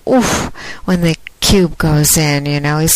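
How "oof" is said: a short high mock oof; imitated grunt. Podcaster mimics her caller's grunt, a mild mock oof. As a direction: yelp an oof like the ice cube just went in. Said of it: "hearing him go".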